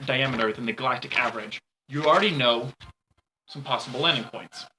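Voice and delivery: ominous scene-setting narration; story narration. A narrator's reading. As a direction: paint the dark world for them. GM describes the planet to players.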